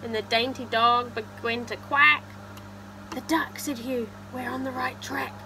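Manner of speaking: animated storybook narration; reading to children. Acted. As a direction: read it out rhythmically to little listeners. Reads picture book aloud.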